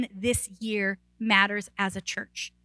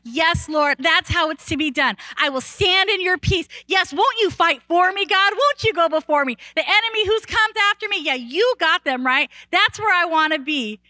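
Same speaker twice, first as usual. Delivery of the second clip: fervent prayer; 5 semitones higher than usual. Retold or imitated. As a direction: plead with God, fired up and sure. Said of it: "I'm like".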